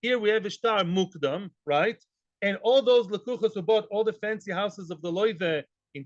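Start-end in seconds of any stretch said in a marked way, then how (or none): 0.0-1.5 mock gloating laugh. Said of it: "are laughing in the corner".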